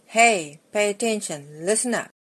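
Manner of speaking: calling out for attention. Retold or imitated. Preacher voicing Jesus calling his followers to listen, loud call.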